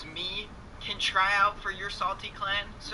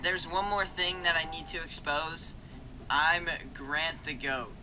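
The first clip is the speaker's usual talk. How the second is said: realistic voice changer voice; 6 dB quieter than usual. Shown as a demonstration. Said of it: "this time it sounds like this".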